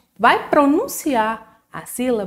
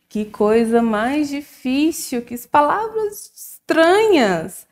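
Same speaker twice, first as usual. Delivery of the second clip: mock dismay; 5 semitones higher, slower than usual. Mock dismay at hard words.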